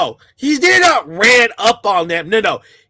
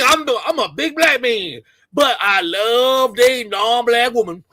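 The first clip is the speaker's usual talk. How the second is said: mocking imitation. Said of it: "they start talking like this".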